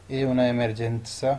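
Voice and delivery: emergenza with the z said as ts, slowly; emergenza, z sounded ts, slow. Shown as a demonstration. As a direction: make emergenza's z a clear ts. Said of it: "ٹی اور ایس کی طرح آواز نکلنی ہے".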